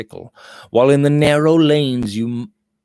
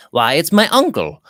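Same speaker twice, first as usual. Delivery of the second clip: a touch of surprised delight, higher; glad surprise; 5 semitones higher, 4 dB louder than usual. A narrator's reading. Robert spots his uncle's carriage, pleased surprise. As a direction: lightly cry out on spotting a relative. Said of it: "cried Robert Audley".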